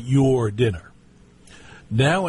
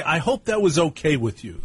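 higher imitation of mother's offhand remark; vague mother; 4 semitones higher than usual. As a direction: lightly imitate her noncommittal hope, pitched up. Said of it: "That's how my mother would have said it".

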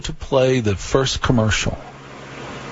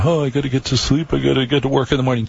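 mock whining; 3 semitones higher, much faster than usual. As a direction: imitate everybody's hurried bedtime grumble. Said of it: "Everybody else is going".

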